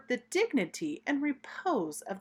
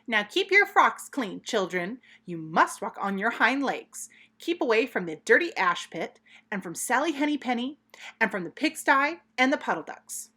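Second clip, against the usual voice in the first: a raised, higher, louder warning to the kittens; mother cat calling her children to order; fussy mother laying down the rules, louder; stern mother cat; 3 semitones higher, 4 dB louder than usual. Acted. Mother warns kittens before tea.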